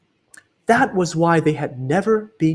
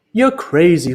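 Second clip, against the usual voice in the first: louder mock-dismissive crook; scoffing thief; 3 semitones higher, 6 dB louder than usual. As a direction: brush off your partner. Max scoffs.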